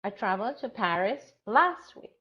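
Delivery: last lifted with a rise; stress on last. Shown as a demonstration. Teacher showing another stress option, stress on last. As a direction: put the weight on last. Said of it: "So it depends".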